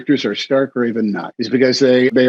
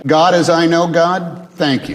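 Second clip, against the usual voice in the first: slow, sincere little prayer; simple prayer; 5 semitones higher, 4 dB louder than usual. Retold or imitated. To the host, quoting his simple prayer, slow and sincere. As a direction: say it like grace at the table. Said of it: "And you know what I say?".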